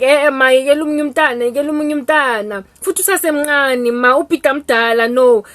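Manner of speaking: loud, fast pleading son; protesting son. Retold or imitated. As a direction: talk mom out of it quickly. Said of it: "the brother Vazi is like".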